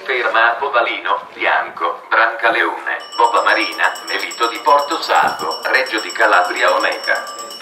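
steady, measured PA announcement over speakers; flat formal station announcement. Real, not acted. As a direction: read it like an automated platform announcement. Train station loudspeaker announcement.

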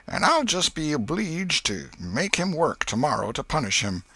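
high-voiced country aunt, grumbling fondly; folksy old woman fretting in a high voice; fond, exasperated old aunt. A narrator's reading. Aunt musing on her nephew, exasperated affection. Aunt's monologue continues.

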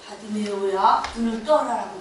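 low Jesus voice. Acted.

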